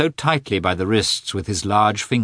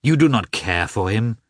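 loud, high pleading cry; desperate plea; 6 semitones higher, 5 dB louder than usual. A narrator's reading. Wife crying out to her husband to leave her son. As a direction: beg him outright.

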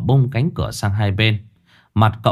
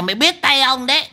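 echoing demon threat. Acted. Repeated threat.

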